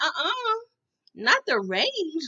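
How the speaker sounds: high cry of uh-uh, then slow not the range; mock alarm. Vlogger refusing to leave her car with the boy, mock alarm. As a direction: clutch your pearls over the car. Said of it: "I'm like".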